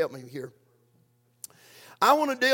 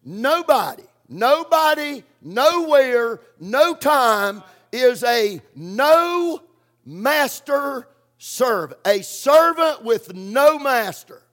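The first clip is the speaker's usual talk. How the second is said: emphatic build-up; 2 semitones higher, 4 dB louder, slower than usual. Real, not acted.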